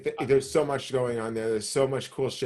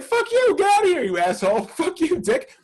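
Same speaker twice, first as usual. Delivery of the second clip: high, loud mock shouting at the driver; hammed-up yelling, cursing out the cabbie; mock angry yell; 6 dB louder than usual. Retelling yelling at the taxi driver, mock furious shout. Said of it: "We're like".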